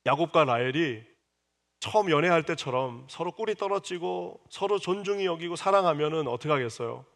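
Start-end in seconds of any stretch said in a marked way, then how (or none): none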